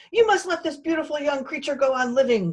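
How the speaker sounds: shrill, loud yelling. A talking bone yells at a fox. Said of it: "the bone yelled".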